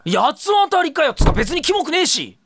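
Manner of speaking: high, loud indignant protest. Acted. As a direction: protest it hotly.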